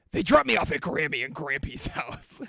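put-on gentle childhood voice; little kid voice. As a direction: recall how you sounded at six. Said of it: "I talked like this".

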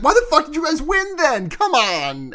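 high, loud, exasperated yell; mock-angry rant. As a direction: blow up at them in disbelief. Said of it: "she's so mad".

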